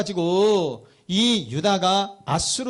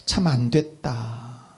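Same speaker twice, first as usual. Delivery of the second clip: slow, lower, pitying remark; deep pity; 5 semitones lower, much slower than usual. Acted. Old gentleman seeing a weeping slave girl, pitying. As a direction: say it slowly with mild compassion. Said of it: "너무 측은한 생각이 든 거예요".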